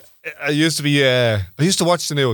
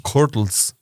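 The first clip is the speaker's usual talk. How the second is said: Curdles said kor-tles; Traveller Cant word; 3 semitones lower than usual. Shown as a demonstration. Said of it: "in English".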